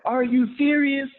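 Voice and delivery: high, slow squeak of disbelief; incredulous squeal; stunned disbelief. Retold or imitated. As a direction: gasp it out, can't believe it. Stunned reply to being recognized.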